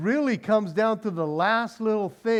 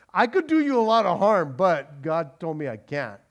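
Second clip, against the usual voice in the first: louder begrudging boast; a touch of grudging Laban; 4 dB louder than usual. Retold or imitated. Laban telling Jacob he can't harm him, grudging. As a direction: sound reluctant.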